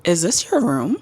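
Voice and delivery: mock a roommate questioning a newcomer; suspicious Karen. Roommate challenging a newcomer at the door, suspicious Karen. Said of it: "start acting like a Karen".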